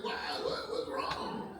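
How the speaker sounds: hushed, slow, anxious questions; worried son. Retold or imitated. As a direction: imitate a boy getting scared. Son frightened by dad's prank.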